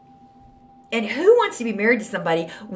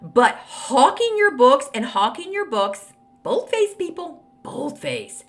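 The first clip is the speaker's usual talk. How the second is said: reading critic's letter; 4 semitones higher, 3 dB louder, slower than usual. Retold or imitated. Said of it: "She goes".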